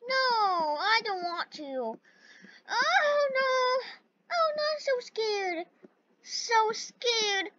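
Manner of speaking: high, soft frightened whimper; scared whimpering. Real, not acted. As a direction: whimper in fear. Afraid of dying in game.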